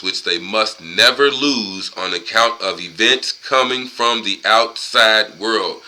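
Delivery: measured, deliberate read-aloud; book reading. Acted. Man reading the book's warning to listeners, deliberate read-aloud. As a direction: read it out with weighty stretched phrases.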